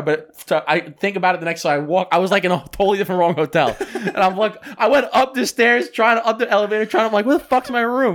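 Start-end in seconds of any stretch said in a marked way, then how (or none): 2.1-8.2 laughing retelling. Real, not acted. Laughing retelling of getting lost.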